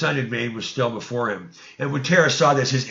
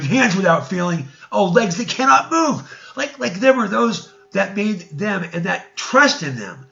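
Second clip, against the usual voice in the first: raised prophetic cry, higher and louder; calling out; 5 semitones higher, 4 dB louder than usual. Acted. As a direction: proclaim it like a prophet denouncing the idols. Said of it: "he called out and said".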